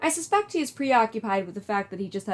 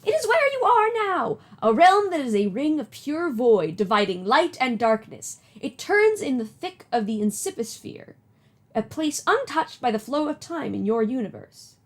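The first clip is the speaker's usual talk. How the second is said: put-on old lady voice; 3 semitones higher than usual. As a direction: play a kindly old granny. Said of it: "do an old lady voice".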